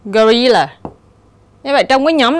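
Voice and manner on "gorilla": "gorilla" stressed on RIL, the second syllable. Shown as a demonstration. Teacher reading test words for students, stress on second syllable. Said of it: "nhấn ở âm thứ nhì".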